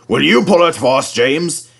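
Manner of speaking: gently asking; a polite request; lightly voiced controller. A narrator's reading. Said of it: "he said".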